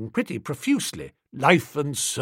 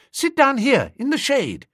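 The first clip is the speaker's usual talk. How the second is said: put-on coaxing a child; 11 semitones higher than usual. A narrator's reading.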